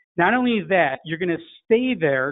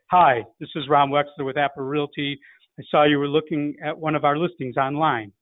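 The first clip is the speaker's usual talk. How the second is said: lower, matching the prospect's low "Hi"; mirroring a low greeting. Shown as a demonstration. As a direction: drop down to meet the prospect's low "Hi". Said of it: "in your closest imitation of their way of speaking".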